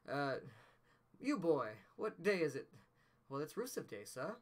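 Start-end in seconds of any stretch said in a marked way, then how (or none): 1.2-4.4 a light mock British accent, Scrooge calling to the boy; mock Dickens British. Doing the Dickens bit for Rusev Day, light mock British accent. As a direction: playfully put on an old Victorian British accent. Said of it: "you did the Dickens thing".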